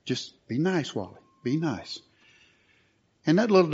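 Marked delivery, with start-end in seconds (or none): 0.0-2.0 coaxing pet owner. Retold or imitated. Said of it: "Millie talking to her bird Wally".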